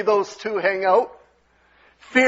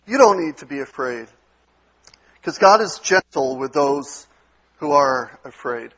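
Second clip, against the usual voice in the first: soft shepherd voice. Retold or imitated. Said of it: "just has that soft touch to it".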